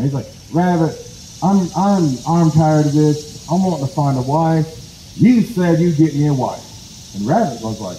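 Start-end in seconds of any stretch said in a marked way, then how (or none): 0.5-7.1 mildly exasperated, slightly raised pitch; a touch of fed-up complaint, words stretched out; annoyed. Acted. Possum telling rabbit he's tired of this, annoyed. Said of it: "he's, he's annoyed right now".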